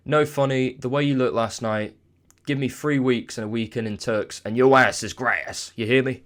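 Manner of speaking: a bad, hammed-up American accent; mock American trash talk, badly faked; a clumsy imitation of an American boxer's taunt in an American accent; awful American accent. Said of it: "that was an awful American accent".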